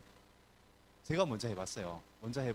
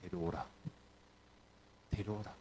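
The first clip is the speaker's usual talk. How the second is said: Jesus's command; 8 semitones lower, 11 dB quieter than usual. Acted. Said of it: "예수님이 한마디 하십니다".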